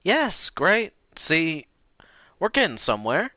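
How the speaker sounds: put-on sweet old lady. Shown as a demonstration. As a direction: say it kindly, a bit high. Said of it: "repeated higher".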